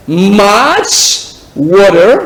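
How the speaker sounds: "water" with an American flapped t and r; accent américain. Shown as a demonstration. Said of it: "Là, c'est accent américain". (« water » à l'américaine)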